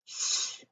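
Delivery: "Sh" alone as a hushed, voiceless hiss; just the consonant "Sh", with no vowel after it; isolated first sound. Shown as a demonstration. Teacher giving second graders the first sound, "Sh" on its own, voiceless. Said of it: "what is the first sound".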